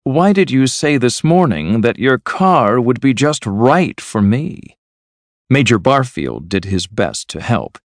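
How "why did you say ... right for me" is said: higher-pitched, cold accusation. A narrator's reading. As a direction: demand an answer coldly. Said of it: "said Mavis coldly".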